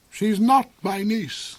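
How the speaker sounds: slow, high sneering reply; slow villain sneer. A narrator's reading. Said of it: "the lame man sneered".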